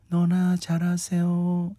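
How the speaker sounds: slow, chilly actress line; Lee Young-ae line. Retold or imitated. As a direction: deliver it coolly and slowly. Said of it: "착깔은 음색으로".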